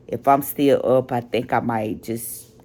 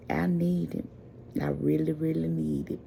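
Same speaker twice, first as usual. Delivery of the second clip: tired plea; 2 semitones higher, 9 dB quieter than usual. Real, not acted. Tired, needs sleep.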